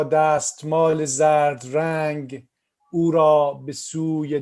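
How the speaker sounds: measured Persian poem recital; poetry reading. Acted. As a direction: recite the poem line by line, pausing after each. Reads own poem in Persian.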